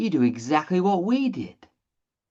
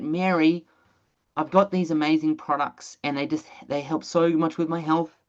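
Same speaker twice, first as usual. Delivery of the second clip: mock sales pitch voice. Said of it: "I don't know why I'm talking like this".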